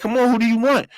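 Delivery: impatient prison clerk. Retold or imitated.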